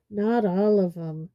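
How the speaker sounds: a hint of hoarseness; hoarse. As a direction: say it hoarsely, worn out. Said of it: "said Hagrid hoarsely".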